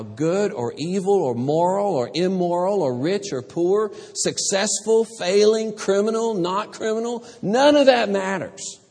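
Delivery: rising fervent crescendo, word by word; building preacher fervor. Real, not acted. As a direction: swell from firm to near shouting. Preacher lists kinds of people.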